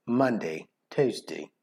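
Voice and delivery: quiet attempt at British day names; British accent. Shown as a demonstration. Showing how the days sound, soft British accent. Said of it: "they're saying it like British".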